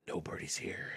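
hushed whisper. Acted. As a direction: breathe it secretly. Whispering in empty room.

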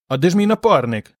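worried sick about his partner; anxious. A narrator's reading. Pol asks the girls where his partner is, anxiously. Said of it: "з тривогою спитав Пол".

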